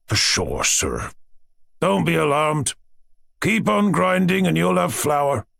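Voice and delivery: a lightly voiced servant, drawn out at the end; a hint of a homely servant's comfort; reassuring servant. A narrator's reading. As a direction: console the boy in a slow-ending, singsong reassurance. Servant consoles punished boy.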